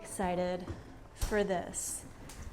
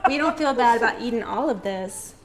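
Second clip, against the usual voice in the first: retake through laughter, a bit fast; laughing; 4 dB louder, faster than usual. Real, not acted. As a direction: say it still laughing after choking. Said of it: "I'm gonna have to edit that".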